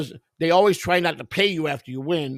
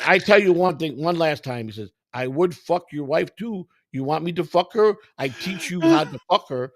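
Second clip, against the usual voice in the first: mock Indian accent; 3 dB louder than usual. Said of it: "You went to a wannabe Indian voice".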